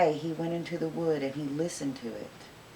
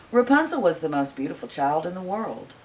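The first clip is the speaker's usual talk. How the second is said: ordinary delivery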